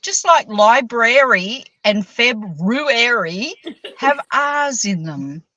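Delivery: slow, emphatic mock American lecture; hammed-up angry American correcting them. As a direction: spell it out like a cross American. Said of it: "She sounded like angry American".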